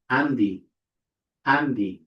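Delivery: Andy with a voiced d after n; correct pronunciation. Shown as a demonstration. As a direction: say Andy with nd, not nt. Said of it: "We say".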